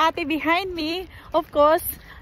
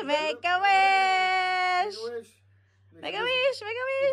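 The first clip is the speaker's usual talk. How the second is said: excited call; 7 semitones higher than usual. Real, not acted. Birthday wish call.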